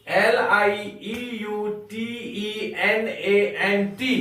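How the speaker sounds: letters spelt out slowly one by one; slow spelling. Shown as a demonstration. Teacher spells the word slowly for pupils, letter by letter. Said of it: "ध्यान दीजिएगा spelling पर".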